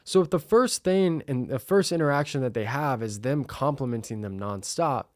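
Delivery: usual speaking voice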